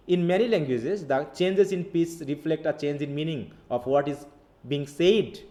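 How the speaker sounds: slow, careful textbook reading; slow reading aloud. Acted. Teacher reading the definition slowly to students. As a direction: read it out slowly for the class.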